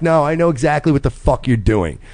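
retold firm, knowing rebuke; pointed call-out tone. Husband retelling his warning to the flirting guy, pointed and firm. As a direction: let him know you see through it. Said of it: "And I said it in that tone".

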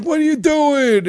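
high, loud, slow outraged question; retold angry shout from the other car; indignant yell. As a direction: throw it back at the driver. Other driver yelling back.

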